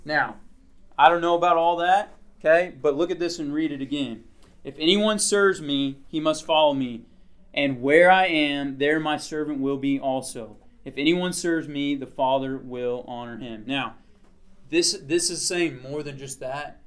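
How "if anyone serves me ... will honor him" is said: measured, deliberate Bible reading; scripture reading. Acted. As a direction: read the verse out clearly and slowly. Reads verse aloud to group.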